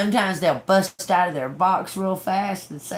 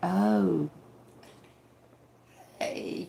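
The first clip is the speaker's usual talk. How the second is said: acting uninterested, quieter; 3 semitones lower, 4 dB quieter than usual. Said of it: "I'm not gonna act like I'm interested".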